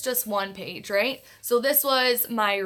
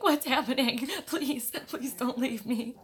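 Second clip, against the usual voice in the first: lightly voiced pleading puppy; speaking for the dog, a hint of whining plea. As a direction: play the anxious puppy begging grandma to stay. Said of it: "so the puppy's like".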